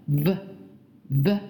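"V" as a short buzz, teeth lightly on lip; voiced v sound. Shown as a demonstration. Teacher demonstrating the phoneme, isolated buzzed "V". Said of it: "一定要上牙齿咬着你的下嘴唇".

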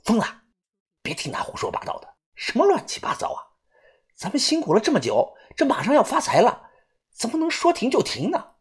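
hushed, high grumble, partly whispered; quiet muttering. A narrator's reading. Young digger grumbling to his mate about stopping, muttering. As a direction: mutter it under your breath to a mate. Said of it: "豆芽仔小声地嘀咕".

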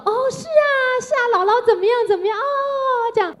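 eager sing-song to the grandkids; grandma delighted. Retold or imitated. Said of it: "然后两个孩子跟她说". (外婆对孙子高声热情地附和)

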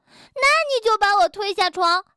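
音调抬高、大声地质问; 气冲冲地顶回去; 生气质问. Acted. 两只兔子吵架. (吵架时抬高嗓门质问)

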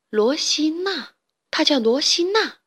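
can't believe it's her; surprised. Acted. Excited at hearing the name. (惊喜地重复名字)

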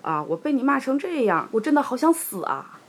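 lightly acted wail of self-pity; mock despair. 狸猫被骂后诉苦.

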